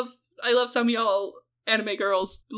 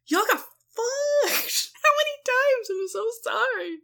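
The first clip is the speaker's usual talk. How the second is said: laughing lament; 12 semitones higher than usual. Real, not acted. Lamenting Egypt's losses.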